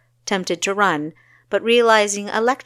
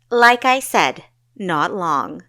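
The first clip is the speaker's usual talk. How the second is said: loud, cheeky with a grin; grinning; 6 dB louder, slower than usual. Acted. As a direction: tease her with a grin. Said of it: "Kessa grinned".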